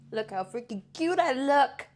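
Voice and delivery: gleeful burst of self-admiration; delighted. Real, not acted. Vlogger admiring her makeup on camera, delighted.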